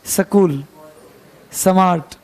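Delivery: स्कूल and स्मार्ट said with a plain s, the Haryana way; Haryana accent. Shown as a demonstration. Teacher imitating how Haryana students say स्कूल. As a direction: drop the sh sound in स्कूल and स्मार्ट. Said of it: "एस को स बोल देते हैं".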